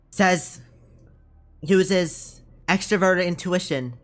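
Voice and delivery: lightly held Italian mobster voice; half-convincing mobster reading a definition. Acted. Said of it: "repeated definition in this voice".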